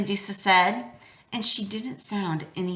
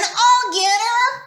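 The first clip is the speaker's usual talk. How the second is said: high, loud, slow battle cry; yelled; 13 semitones higher, 5 dB louder, slower than usual. A narrator's reading. Grover charging at Medusa, yelling. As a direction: shout it as you charge. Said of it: "he yelled again".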